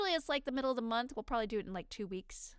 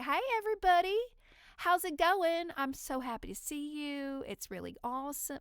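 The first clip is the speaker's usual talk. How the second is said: put-on thick Southern accent; 4 semitones higher, 3 dB louder than usual. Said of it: "just thick, thick, thick".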